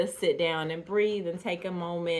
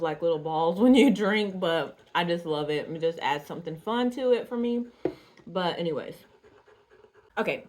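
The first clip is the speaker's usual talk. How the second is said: talking while chewing boba pearls; words around a mouthful of chewy pearls; mouth full. Real, not acted. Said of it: "they say it's rude to talk with your mouth full".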